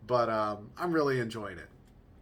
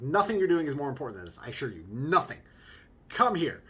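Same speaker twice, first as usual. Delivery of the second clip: louder, emphatic mock insistence; acted urgent insistence; 5 dB louder, faster than usual. Husband urging wife to come see, acted insistence. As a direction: press each phrase as a playful order.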